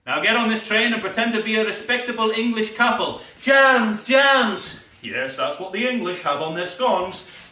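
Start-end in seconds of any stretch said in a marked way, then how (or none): 3.4-4.8 high, loud, urgent call; urgent yell. Acted. Spy shouting a warning to Kerim, urgent. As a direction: call it out in alarm. Yelling a code word.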